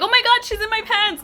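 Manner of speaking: high re-enacted alarm; retold panic. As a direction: cry it out in mock panic.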